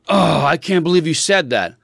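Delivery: mildly huffy imitation of a child; lightly put-on sassy indignation; mock attitude. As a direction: mimic a kid with attitude, understated. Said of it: "she walks around the house with an attitude".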